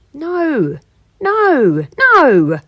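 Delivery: a grumpy wolf refusing, rising to a loud no; grumbled. A narrator's reading. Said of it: "grumbled the wolf".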